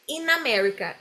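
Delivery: "in America" said as one word, N running into A; linked words. Shown as a demonstration. Teacher shows consonant meeting vowel, linked words. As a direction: glide from "in" straight into "America". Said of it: "in consoante, vogal também junto".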